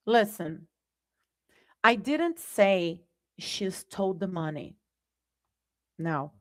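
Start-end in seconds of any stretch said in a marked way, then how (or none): 1.8-4.8 DIDN'T stressed, said softly; I didn't say she stole the money, weight on didn't. Shown as a demonstration. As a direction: lean on the word didn't. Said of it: "Same words, different message".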